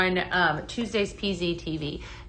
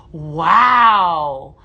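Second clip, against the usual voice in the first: impressed wow; 4 semitones lower, 9 dB louder than usual. Real, not acted. Reacting to viewer's blend.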